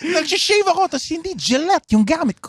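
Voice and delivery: high, hammy Joker voice; Tagalog Joker voice. Pretend. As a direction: tease it like the Joker. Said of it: "Tagalog na Joker".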